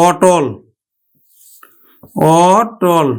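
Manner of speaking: অটল said with open aw-tol; teacher models অটল; pronunciation demo. Shown as a demonstration. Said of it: "উচ্চারণ করব কিন্তু".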